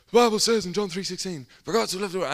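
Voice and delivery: high, loud imitation of a Bible reader; bellowing scripture. Bible reader reads John aloud in the street, bellowing. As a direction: belt out the verse in a mock proclamation. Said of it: "he would just bellow out the scriptures".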